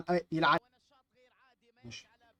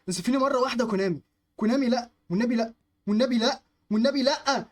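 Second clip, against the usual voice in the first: high, rising, insistent begging; desperate pleading; 5 semitones higher, 4 dB louder than usual. Real, not acted. Gamer begging Konami for fairness just once, desperate pleading. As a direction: plead louder with each repeat.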